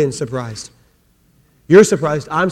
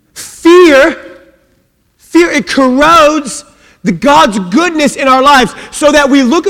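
high, loud, fast preaching build; full-force preaching; 7 semitones higher, 5 dB louder than usual. Acted. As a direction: drive the point home to the church.

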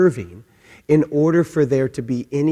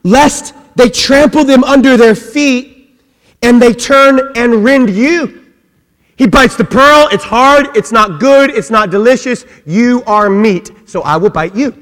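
loud, high, punched-out phrases; hammed-up sermon shout, easing at the end; full-force comic preaching; 8 semitones higher, 9 dB louder than usual. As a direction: shout the verse, then play it out. Preaches verse and pig's reaction.

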